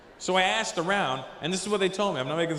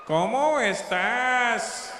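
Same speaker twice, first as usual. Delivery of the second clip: plain Latin Spanish; 7 semitones higher, 4 dB louder, much slower than usual. Retold or imitated. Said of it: "don't speak Spanish with a lisp".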